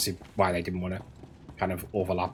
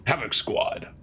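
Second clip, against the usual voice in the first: whisper; 3 semitones higher, slower than usual. Retold or imitated. Echoes the game's line.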